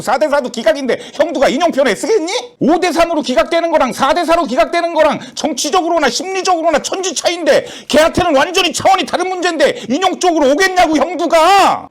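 high-pitched, heated explaining; exasperated argument. Acted. Explaining to the caller why the vote won't come, exasperated. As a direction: argue it through insistently at a high pitch.

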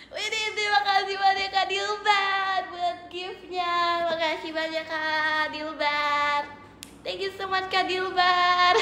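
drawn-out sing-song gift thanks. Real, not acted. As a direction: stretch the name out as you thank a viewer. (ucapan terima kasih mendayu)

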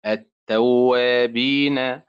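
slow, drawn-out التوابين, stressed on وا; model word stress. Shown as a demonstration. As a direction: stretch التوابين and lean on وا. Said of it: "تأتي بالكلمات هكذا".

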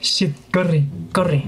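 panicked hushed cursing; being chased. Real, not acted. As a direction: flee in a breathless panic. Crocodile wakes and chases him.

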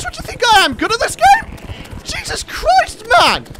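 high, loud sarcastic whine; sarcastic exasperation. Real, not acted. Frustrated at own play.

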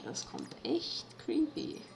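slow creepy whisper. Real, not acted. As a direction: whisper it slowly, spooked. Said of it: "Das kommt mir echt creepy vor".

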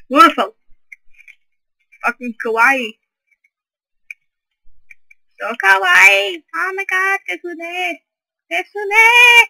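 high squealing fangirl gushing; excited anime fan. Pretend. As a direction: squeal over something cute. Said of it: "PewDiePie impressions".

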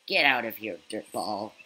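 put-on loud teasing old goat. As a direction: bark it like a grumpy goat. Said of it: "I have to do a goat voice".

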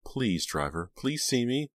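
pleading, pitch climbing at the end; anxious plea. A narrator's reading. Pam begging a passing car, anxious plea.

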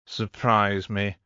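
slow, unimpressed challenge; understated boredom. Acted. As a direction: draw it out as if past caring. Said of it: "suddenly looking even more bored".

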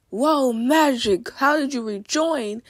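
slow, drawn-out mock amazement; mildly sarcastic. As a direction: imitate a friend's sarcastic wonder. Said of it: "see sarcasm?".

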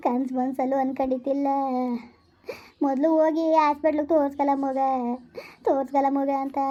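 keen over the dead son; tearful lament. Acted. Mother grieving to her elder brother, tearful lament. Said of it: "ಅಳಬೇಡ ಸುಮ್ನಿರು".

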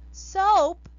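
loud, high shocked question; surprised shout. Acted. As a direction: cry out in disbelief. Old man finds soap flakes.

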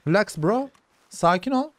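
high, sweet-talking coo; cooing to an animal. Real, not acted. Sweet-talking the horse to calm it.

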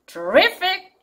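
terrific with RIF pitched high; second-syllable stress. Shown as a demonstration. Teacher repeating the contrast, terrific stressed high on "RIF". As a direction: lift and hit RIF in terrific. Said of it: "리의 강세가 있어서".

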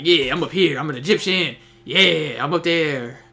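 lightly put-on Egyptian accent, drawn out; imitating an Egyptian-sounding enemy, lightly; mock Egyptian accent. Mocking an enemy player on a ledge, in an Egyptian accent. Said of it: "That's exactly how he sounds".

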